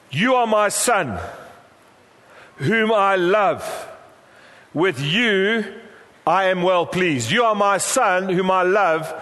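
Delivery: slow, spaced-out proclamation, lightly voiced as God; solemn voice of God. Preacher voicing the Father to his son, solemn and slow. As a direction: declare it slowly, weighting each phrase.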